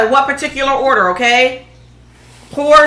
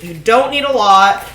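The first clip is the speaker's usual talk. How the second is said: voice crack. Real, not acted. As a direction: voice cracking on a word. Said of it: "Y'all heard that voice crack?".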